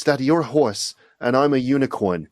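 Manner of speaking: lightly imitated little-girl New Jersey accent; daughter's New Jersey accent. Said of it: "this New Jersey accent's coming from".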